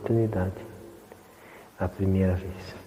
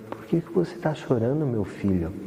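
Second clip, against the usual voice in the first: sweet voice; 2 semitones higher than usual. Retold or imitated. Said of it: "Aquela voz doce".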